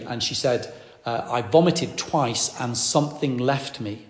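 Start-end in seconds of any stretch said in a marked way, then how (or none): 1.3-4.0 I vomited twice and something left me said slowly, each word weighed; slow, weighty quote. Retold or imitated. Preacher retelling Faye's words to the congregation, slow and weighty. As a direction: lay out her exact words slowly. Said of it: "that was her exact words".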